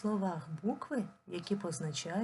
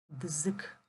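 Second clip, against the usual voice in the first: whispered syllable; 3 semitones lower than usual. Shown as a demonstration. Dictating syllable while writing.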